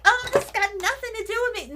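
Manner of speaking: high, fast mocking voice; sing-song mock of her dismissive tone; high, quick, airy brush-off. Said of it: "she was like".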